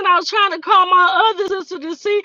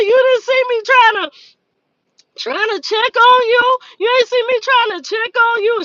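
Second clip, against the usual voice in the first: higher-pitched mock indignation; indignant retort; 5 semitones higher than usual. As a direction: throw it back at her, playfully indignant. Retold indignant retort to her sister.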